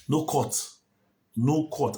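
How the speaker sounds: "no court" firmly set apart with a pause after it; stress on "no court". Real, not acted. Commentator insisting on a legal limit, emphatic "no court". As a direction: punch "no" in "no court", then let it fall. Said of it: "I emphasize on no court".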